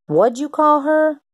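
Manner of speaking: high, slow, menacing demand of an angry dad; slow menacing question from an angry white father. Acted. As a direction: confront the boy slowly, high and hard. Angry father confronts boy.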